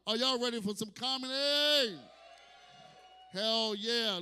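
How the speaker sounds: loud emcee crowd shout; hype shout. Real, not acted. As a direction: fire up the room. Emcee hyping audience.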